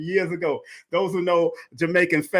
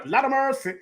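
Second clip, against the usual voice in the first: Jamaican accent; 4 semitones higher than usual. Real, not acted. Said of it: "my Jamaican accent start coming out".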